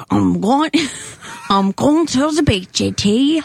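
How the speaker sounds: slow, badly faked Czechoslovakian accent; halting mock Czechoslovakian. Shown as a demonstration. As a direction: attempt Czech-accented English, dragging the words. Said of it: "Czech-, Czechoslovakian".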